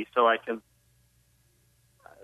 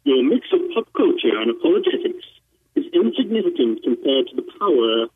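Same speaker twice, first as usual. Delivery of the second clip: mock-imperial villain voice, only lightly put on; Catholic Darth Vader. A caller hams up a Catholic Darth Vader for the hosts, lightly voiced. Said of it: "I can't do Catholic Darth Vader right".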